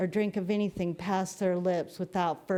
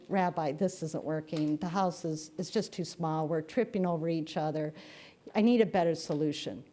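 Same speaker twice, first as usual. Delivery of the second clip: grumbling farmer; 4 semitones lower, 4 dB quieter than usual. Retold or imitated. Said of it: "he's grumbling even more".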